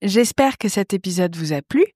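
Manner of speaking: scripted, lilting sign-off to listeners; podcast outro read. Acted. Host signs off to listeners, scripted outro read. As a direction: read out the closing plugs in a presenter's voice.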